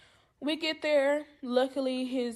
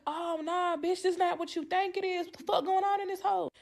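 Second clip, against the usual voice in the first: alarmed outrage; 6 semitones higher than usual. Retold or imitated. To the man blocking the door, a higher alarmed protest. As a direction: push back at the ambush. Ambushed by a linebacker.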